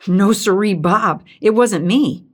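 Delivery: emphatic, firm "No siree, Bob"; emphatic denial. A narrator's reading. Hank denies it to Doris, emphatic. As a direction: deny it flatly, leaning on no. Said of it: "Hank said emphatically".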